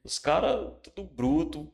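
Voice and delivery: loud, high exclamation about rough coworkers; emphatic exclaiming. Retold or imitated. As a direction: stress how rough the guys were.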